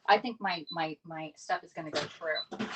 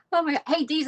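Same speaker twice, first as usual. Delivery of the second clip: surprised exclaim; 9 semitones higher, 7 dB louder than usual. Real, not acted. Spotting a favourite moderator.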